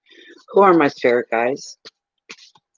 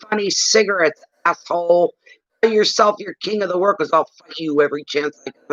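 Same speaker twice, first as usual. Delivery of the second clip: reenacted defiant threats at a robber; angry confrontation; 3 semitones higher than usual. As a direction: dare him, half acting it out. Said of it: "but angry".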